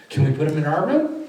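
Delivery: a hint of a child asking, lifted at the end; imitated hopeful request. Children asking about the pictures, lightly voiced hope. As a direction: ask it brightly, lightly playing a child.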